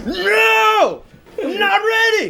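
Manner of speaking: high, loud laughing protest; energetic no. Real, not acted. Streamer laughing, loudly refusing the dab. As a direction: yelp it out through a laugh. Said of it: "a very energetic no".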